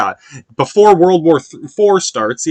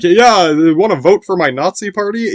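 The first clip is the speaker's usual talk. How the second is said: mock cheerful voice; 5 semitones higher than usual. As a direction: chirp it like a goofy salesman. Acting out a silly quote.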